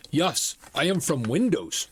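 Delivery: lightly put-on Indian accent; imitated Indian accent. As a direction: scam caller with a rough Indian accent. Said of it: "It was an Indian accent".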